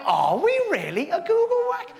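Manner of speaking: lightly voiced excited physicist; bouncy physicist. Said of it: "A man called David Harris wrote back going".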